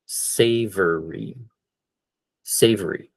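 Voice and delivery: savory, drawn out slowly; teacher modelling savory; slow model word. Shown as a demonstration. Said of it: "So that one again".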